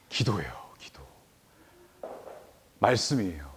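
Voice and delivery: near-whispered, low and reverent; hushed emphasis. Real, not acted. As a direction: drop to a hush for the key word. Hushed key point in sermon.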